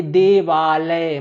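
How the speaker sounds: देवालय very slow, its long वा stretched; joined word, drawn out. Shown as a demonstration. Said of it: "देव plus आलय मिलकर के क्या बना दिए". ("देवालय" को जोड़कर, लंबा खींचकर)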